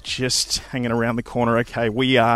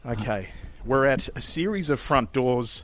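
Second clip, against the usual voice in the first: hushed; 2 semitones lower, 7 dB quieter than usual. Real, not acted. Sneaking up to the front door.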